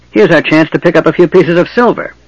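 high, greedy goblin voice. Acted. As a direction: lick your lips over the silver.

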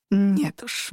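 usual speaking voice

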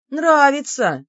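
"Нравится!" thrown out high and loud; groaned exclamation. A narrator's reading. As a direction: blurt "Нравится!" as a pained protest. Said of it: "снова простонала я".

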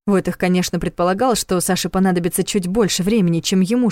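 ordinary delivery

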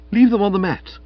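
high, loud indignant command; sharp order. Acted. Florence ordering Stilton to stay out, high and sharp. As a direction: order the intruder off. Florence refuses to admit visitor.

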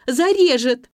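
high, loud desperate wail; wailing in terror. A narrator's reading. Nelli clinging to the narrator's knees, terrified wailing. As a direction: beg them not to leave, howling. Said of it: "повторяла она".

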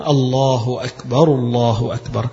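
الله أكبر said slowly and cleanly, every letter in place; a model call, الله أكبر clear and measured; careful tajweed. Shown as a demonstration. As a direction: give أكبر each sound precisely and a little slowly. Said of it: "وتعلم التجويد في كلامك".

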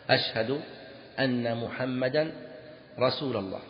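slow, phrase by phrase, رسول as "rasula"; measured call with -a closing رسول; wrong accusative ending on رسول; grammar-slip demo. Shown as a demonstration. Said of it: "نصب رسول".

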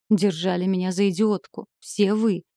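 ordinary delivery

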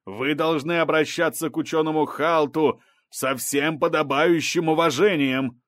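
indignant judge's reprimand; thundering rebuke. A narrator's reading. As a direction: lay down the rule with authority. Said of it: "громыхнула Сарт".

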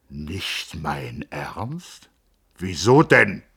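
a blustering physician giving his blessing; gruff doctor. A narrator's reading. The Hofrat sends Joachim off, hearty and loud.

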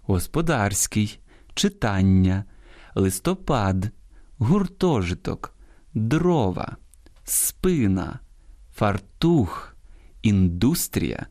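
each word from господарський to металургія slow and separate, its stressed syllable drawn out; correct stresses shown. Shown as a demonstration. Host models a word list, marking stresses such as листопад and фартух on the last syllable. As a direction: lean on one syllable per word, as in листо-ПАД, гур-ТО-житок, фар-ТУХ. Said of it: "я зараз правильно читаю".

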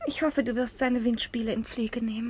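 breathy hushed whisper. Acted. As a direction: lean in and whisper it. Daughter whispers to her father.

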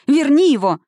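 high, loud wailing plea. A narrator's reading. Sister wailing at Elphaba to bring him back. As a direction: wail it out in grief. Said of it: "запричитала шестая".

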